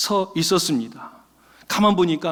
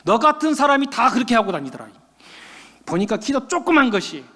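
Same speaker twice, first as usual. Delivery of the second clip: mildly angry scolding of a customer; retold scornful telling-off; angry owner. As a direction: scold with mock indignation. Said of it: "이 사장이 더 화를 냅니다".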